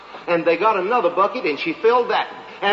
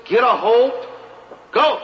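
judges hollering; 5 semitones higher, slower than usual. Retold or imitated. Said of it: "They hollered".

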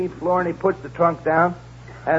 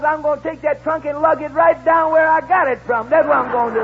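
raised, louder porter threat; mock angry shout; 10 semitones higher, 4 dB louder than usual. Porter to stingy lady, a mock angry shout. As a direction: shout him down over the fee.

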